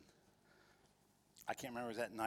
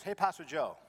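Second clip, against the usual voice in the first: lightly put-on Korean caller, loud and high; a cheerful imitation of the caller; bright greeting from an excited friend; Charlie's voice; 6 semitones higher, 10 dB louder than usual. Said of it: "Charlie's Korean".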